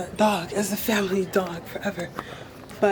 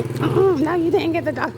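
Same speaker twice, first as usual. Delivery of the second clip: judgy commenter; 6 semitones higher than usual. Pretend. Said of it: "whoever's watching this video is hating, commenting".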